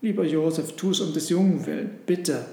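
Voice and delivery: Mary coaxing Joseph, mildly pleading. Acted. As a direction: urge him tenderly. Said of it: "bat Maria".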